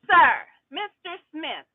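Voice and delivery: slow, drawn-out mock judge; sarcastic judge. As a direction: talk down to him, slowly. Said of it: "we gonna get sarcastic now".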